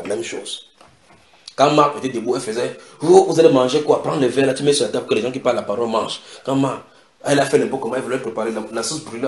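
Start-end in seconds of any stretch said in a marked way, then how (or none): 3.0-6.2 bustling hostess giving orders, hurried at the end; lightly acted busy housewife ordering people about; acted bossy fussing. Marthe ordering others to set the table, mock bossy.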